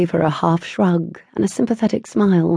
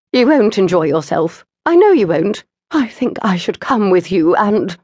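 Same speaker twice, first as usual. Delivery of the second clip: anxious mother; 3 semitones higher, 4 dB louder than usual. Acted. Mother insists on coming along.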